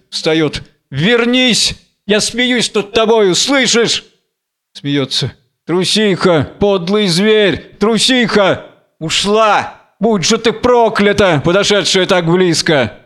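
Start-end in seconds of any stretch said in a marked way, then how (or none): 0.9-4.1 higher, defiant call; calling back. Acted. Samson calls after fleeing lioness. 5.6-13.0 higher, declaimed contempt; scornful cursing. Acted. Cursing the departed lioness.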